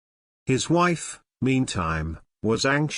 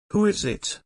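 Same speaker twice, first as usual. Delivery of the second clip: priest's voice, higher, impatient; 9 semitones higher than usual. A narrator's reading. Priest impatiently asking the sexton, in a higher impatient voice. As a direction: snap the question out. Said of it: "he asked, impatiently".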